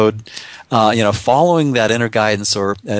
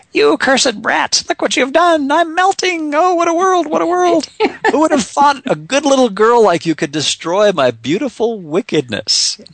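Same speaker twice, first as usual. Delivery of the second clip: much higher cackling witch voice, slowing at first; Wicked Witch of the West. Retold or imitated. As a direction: shriek it like a melting witch. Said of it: "Wicked Witch of the West says".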